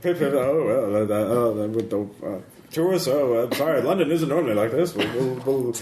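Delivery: lightly hammed-up British bobby; British accent. British policeman apologising to a tourist, playful British accent. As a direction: put on a bumbling, stereotyped British accent.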